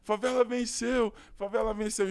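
shouting in joy. Retold or imitated. At a traffic light, shouting at the man in the Porsche, overjoyed. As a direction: belt it out like a victory cry. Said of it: "comecei a gritar assim".

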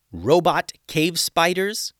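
surprised. A narrator's reading. Tatiana surprised at robots.

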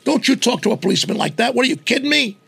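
rapid-fire mock indignation; mock scolding. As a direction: scold like an indignant parent, acted. Acts out scolding a disrespectful child.

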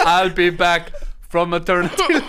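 badly faked Terminator accent with laughter in it; jokey, off-target Terminator accent; botched Terminator accent. Comic riffing on a pregnant Terminator, botched accent. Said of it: "What's that accent?".

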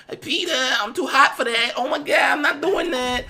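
aunt refusing to sign, in a high mocking voice; Aunt May. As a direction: brush him off in a shrill high voice.

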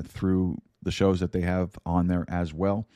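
usual speaking voice

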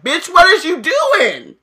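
high, loud, slow disbelief; incredulous. Retold or imitated. Best friends staring at Hermione, high and incredulous. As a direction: demand it like you can't believe your eyes. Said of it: "are like".

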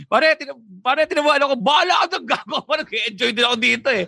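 buddy best man voice. Retold or imitated. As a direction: play the tipsy best man, high and ribbing. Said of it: "Sabi ng best man".

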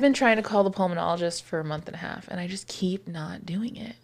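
wheezy, breathy speech. Real, not acted. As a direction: talk with a slight wheeze. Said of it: "You're wheezing".

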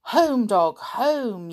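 put-on boy yelling at a dog to go home; yelled. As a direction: shoo the dog off with a yell. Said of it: "yelled Sooty".

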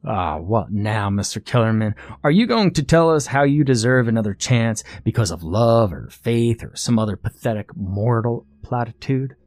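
lightly voiced villain losing patience; mock the plea with disdain; scornful contest master.

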